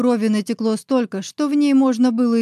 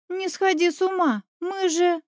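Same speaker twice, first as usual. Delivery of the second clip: worried plea; 8 semitones higher than usual. Acted. Deya trying to stop her.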